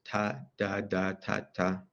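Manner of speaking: lightly imitating infant babbling "ta, da"; mild babble of "ta" and "da"; baby babble. Shown as a demonstration. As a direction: softly mimic a toddler's first syllables. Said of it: "such as da da or wa wa".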